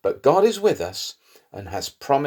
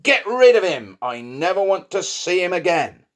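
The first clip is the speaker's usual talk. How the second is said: high, loud outburst as the angry king; furious king; 7 semitones higher, 4 dB louder than usual. A narrator's reading. King banishing Haman after learning his evil plan, furious. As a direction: order him away in acted fury, pitch jumping up. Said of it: "The king was furious with Haman and said".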